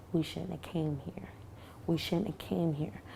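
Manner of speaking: a cousin softly mouths regret while hiding, quiet; silent mouthing. Retold or imitated. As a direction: mouth it softly so the gunman can't hear. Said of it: "we could talk without actually saying anything".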